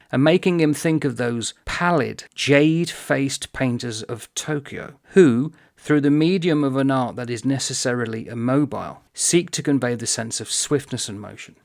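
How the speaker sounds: deliberate, phrase-by-phrase read-aloud; measured reading of a long sentence; slow reading. Shown as a demonstration. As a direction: pause and weigh each image. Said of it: "but slowly".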